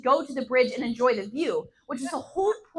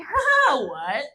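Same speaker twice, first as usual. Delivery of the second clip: confused laugh; 4 dB louder, much slower than usual. Retold or imitated. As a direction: laugh it off, then drop into confusion. Baffled reply to odd customer.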